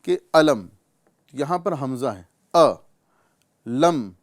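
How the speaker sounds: الم with a clear glottal catch on ا; hamza in الم. Shown as a demonstration. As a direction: stop cleanly on ا before لم. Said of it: "وہ اس طرح".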